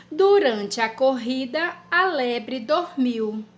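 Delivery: slow, word by word dictation; dictation pace. Shown as a demonstration. Teacher dictating a sentence to children. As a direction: dictate it slowly so children can write.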